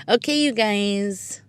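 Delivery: badly faked British, drawn out; attempted British accent. Podcaster mimicking her UK friends, mock British accent. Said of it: "trying to say it with a British accent".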